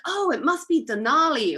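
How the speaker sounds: hammed-up Canadian accent; bad Canadian accent. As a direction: badly imitate a Canadian making a confident guess. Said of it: "I can't do the Canadian accent".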